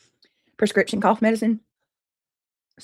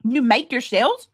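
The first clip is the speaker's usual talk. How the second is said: slow, louder disbelieving question rising on shells; can't believe she makes them herself; incredulous; 3 semitones higher, 5 dB louder, slower than usual. Real, not acted. Streamer asks Joan in disbelief about homemade tortilla shells, slow and incredulous.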